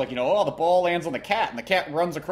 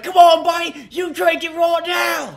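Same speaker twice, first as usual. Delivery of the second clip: much higher, loud, slow mock shout; hammed-up bar bully urging a drink; mock pushy drinker; 9 dB louder, slower than usual. Imitating Irish drinkers urging.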